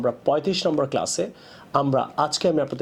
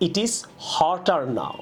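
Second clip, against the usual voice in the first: slow demo of right sentence; 2 semitones higher, much slower than usual. Shown as a demonstration. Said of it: "বলতে পারি আমরা".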